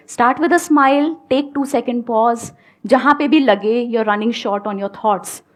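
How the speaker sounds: very slow and measured; slow, deliberate advice. Shown as a demonstration. Coach repeating interview tips to students, very slowly. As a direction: lay each step down slowly.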